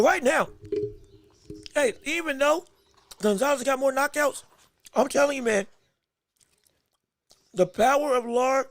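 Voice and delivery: eating while talking; mouth full. Real, not acted. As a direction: talk through a mouthful of food. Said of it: "can't nobody else on commentary eat and talk".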